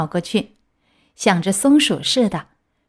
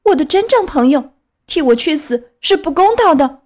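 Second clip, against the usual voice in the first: high, loud, impassioned declaration; ringing, heroic; 6 semitones higher, 5 dB louder than usual. A narrator's reading. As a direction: offer yourself boldly in a ringing puppet-boy voice. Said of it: "这番话说得叮当响亮， 声调豪迈激昂". (豪迈激昂、响亮高亢)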